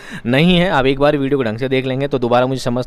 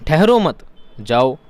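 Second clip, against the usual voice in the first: "ठहरो मत" slowly as one group, then "जाओ" apart; pause after "मत"; slower than usual. Shown as a demonstration. Teacher asking where to stop, pausing before "जाओ". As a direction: break the sentence before "जाओ". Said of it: "कहाँ रुकना है".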